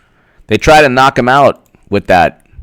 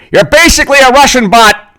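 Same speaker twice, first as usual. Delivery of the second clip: high mock accusation; 11 semitones higher than usual. Online accuser shouting.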